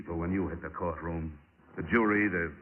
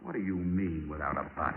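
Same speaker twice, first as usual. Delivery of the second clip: feigned puzzlement; 6 semitones lower, 6 dB quieter than usual. Acted. Detective feigns puzzlement, lowered voice.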